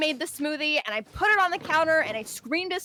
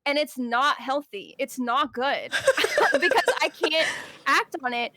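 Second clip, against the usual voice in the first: laughing; 3 semitones higher, 4 dB louder than usual. Real, not acted. Laughing while ranting.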